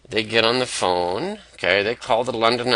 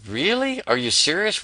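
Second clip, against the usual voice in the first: Really jumps much higher, then settles; surprised disbelief; 8 semitones higher than usual. Acted. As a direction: sound amazed someone would pay. Underground hears the ad offer.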